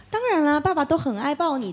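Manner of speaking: imitated father's cheerful agreement; eager fatherly reassurance. Father happily agreeing to child's request.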